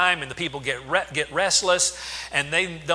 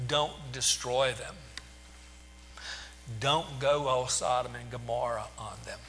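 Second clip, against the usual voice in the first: pleading; 3 semitones lower, 9 dB quieter than usual. Retold or imitated. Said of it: "pleads to God".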